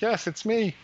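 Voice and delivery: a lightly put-on high ghostly answer. Dead husband answers his wife from beyond, in a lightly high ghost voice.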